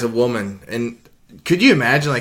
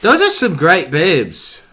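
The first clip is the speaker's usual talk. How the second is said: put-on Jamaican accent; 4 semitones higher, 3 dB louder, slower than usual. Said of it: "Jamaican accent".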